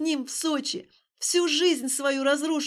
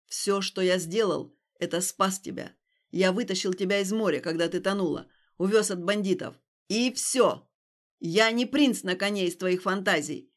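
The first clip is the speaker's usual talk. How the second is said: angry insistence; 3 semitones lower, 4 dB louder than usual. Acted. Stas shouting at Alina.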